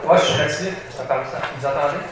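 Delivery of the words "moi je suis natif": louder, projecting to the back of the room; speaking up. Real, not acted. Told by a listener to speak up, now louder. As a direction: raise your voice so everyone hears. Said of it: "Parle plus fort".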